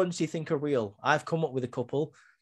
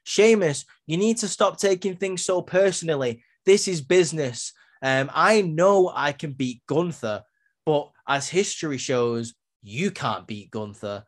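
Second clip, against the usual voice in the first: imitating Drew; 2 semitones higher than usual. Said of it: "Drew McIntyre says".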